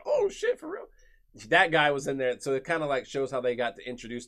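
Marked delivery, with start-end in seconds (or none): 0.0-0.8 frat bro. Retold or imitated. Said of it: "He's like".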